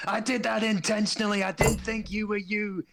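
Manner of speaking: high put-on character voice. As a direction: say it like a sheepish excuse.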